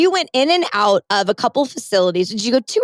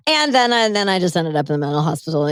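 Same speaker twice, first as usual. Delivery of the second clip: mock casual; 5 semitones lower than usual. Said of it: "I love how you just like".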